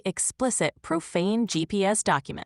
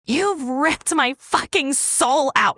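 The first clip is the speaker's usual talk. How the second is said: slow, raised-pitch anguished outburst; maximum intensity; 5 semitones higher, slower than usual. Acted. AI voices a breakup letter, maximum intensity. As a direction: wring out every word, slowly and intensely. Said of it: "equals increase to maximum".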